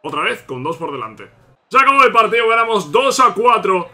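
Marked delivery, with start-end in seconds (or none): 1.7-3.9 higher and louder, thrilled; excited. Real, not acted. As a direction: announce the win with joy. Final whistle, win.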